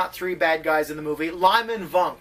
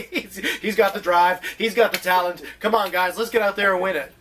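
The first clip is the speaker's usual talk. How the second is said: barking gym coach. Retold or imitated. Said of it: "the coach in an inspirational football movie".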